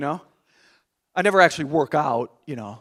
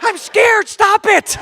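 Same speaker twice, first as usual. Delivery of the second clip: much higher, loud, half-laughing whimper; mock fright; 8 dB louder, much slower than usual. Husband begging his wife to stop, mock-terrified. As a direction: plead like you're terrified, hammed-up.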